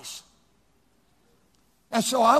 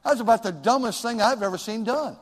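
blunt rebuke; 2 semitones higher than usual. Retold or imitated. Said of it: "others they like that".

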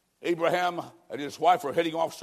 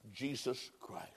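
much softer, falling away low; hushed; 6 semitones lower, 15 dB quieter, slower than usual. Acted. Preacher softly naming Jesus Christ, hushed. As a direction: drop to a near hush on the name. Soft close of appeal.

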